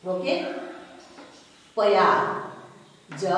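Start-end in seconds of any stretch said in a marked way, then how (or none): 1.8-2.2 प्यार with a full प, as pa-yaar; full first syllable. Shown as a demonstration. Teacher showing learners the reading to avoid, full-प pronunciation. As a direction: stretch प्यार into two beats, pa-yaar, louder. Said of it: "प्यार नहीं हो गई".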